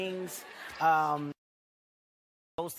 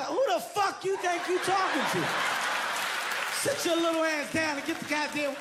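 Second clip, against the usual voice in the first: mock angry dad; 11 semitones higher than usual. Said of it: "And I looked at her".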